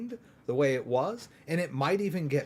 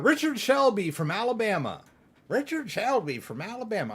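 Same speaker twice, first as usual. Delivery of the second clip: put-on Southern accent; 6 semitones higher than usual. Naming the lone holdout senator from Alabama, in a Southern accent. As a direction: do a playful Southern US accent, pitched up. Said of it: "I can do a Southern accent".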